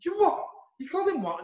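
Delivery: wife shocked at what he just said. Retold or imitated. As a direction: squeak out the shock. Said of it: "my missus is like".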